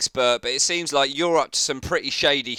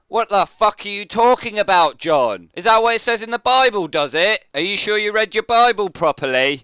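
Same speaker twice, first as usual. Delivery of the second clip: incredulous rant; 4 dB louder than usual. Real, not acted. Ranting at a video preacher.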